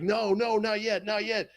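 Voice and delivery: loud, high, rapid-fire no's; mock-urgent call to hold off; retold urgent warning. Urgent order in retold fight.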